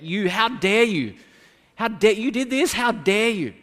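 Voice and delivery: mock fury of a condemning accuser; condemning rant. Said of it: "very easy to condemn someone".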